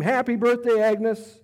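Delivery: loud, high birthday shout; surprise shout. Acted. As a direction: yell it out to surprise her. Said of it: "They all shout and scream".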